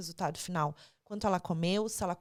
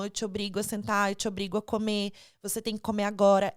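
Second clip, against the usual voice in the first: a stern parent forcing food, louder at the end; half-hearted mock of a parent ordering a child to eat; mock parent threat; 5 dB louder than usual. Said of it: "é uma ameaça".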